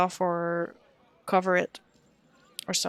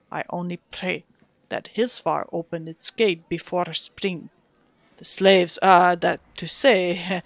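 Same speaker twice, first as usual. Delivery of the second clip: put-on Russian accent; 3 dB louder than usual. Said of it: "trying to do the Wizard of Tay voice".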